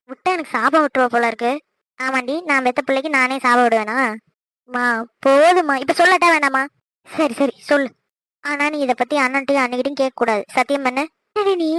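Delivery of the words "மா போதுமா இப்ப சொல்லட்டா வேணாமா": fed up. Acted. Daughter challenging nagging mother whether to tell, impatient.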